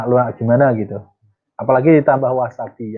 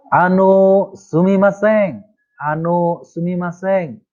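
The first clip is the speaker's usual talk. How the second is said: higher, slow polite call for attention; polite stranger; 5 semitones higher than usual. Acted. Learner plays a stranger asking a passerby for directions.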